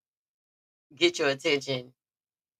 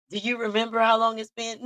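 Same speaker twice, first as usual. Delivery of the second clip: mock shout; 6 semitones higher than usual. Acting out quarrel with him.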